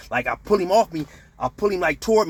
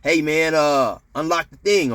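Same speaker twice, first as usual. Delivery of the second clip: mildly raised calling voice; retold holler; 2 semitones higher, 4 dB louder than usual. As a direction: call up the tier, half-heartedly. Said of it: "So he hollers up to the".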